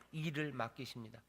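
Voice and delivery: ordinary delivery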